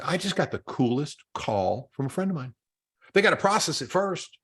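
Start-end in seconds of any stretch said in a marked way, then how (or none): 0.0-2.5 slow, lightly voiced excited partner; imitating a spouse report. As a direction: tell your partner slowly about the call. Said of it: "go to their significant other and say".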